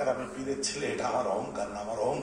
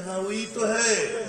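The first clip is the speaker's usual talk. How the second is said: mocking reply in Hindi; 6 semitones higher, 5 dB louder than usual. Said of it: "আমি বলছি".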